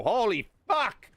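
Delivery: hammed-up shock at being fat; mock shocked self. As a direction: gasp it out like a sudden discovery. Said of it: "I didn't just wake up this morning and go".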